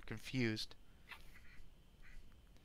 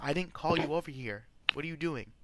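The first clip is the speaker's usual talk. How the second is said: lightly acted, higher-pitched barkeep complaint; annoyed barkeep; 3 semitones higher than usual. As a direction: scold the guard, mildly put out. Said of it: "barkeep's telling him".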